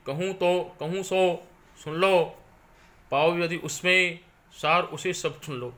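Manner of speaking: measured, sung-through verse reading; poem recitation. Acted. Teacher reciting Kaikeyi's verses to students, solemn poem recitation. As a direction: recite the lines with weight and rhythm.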